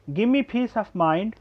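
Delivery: slow, careful "Give me" run together as "gimme"; teacher spells out the sentence for students slowly; slow teaching read. Shown as a demonstration. Slow contracted "gimme" for students. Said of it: "give me को contract करके पढ़ते हैं".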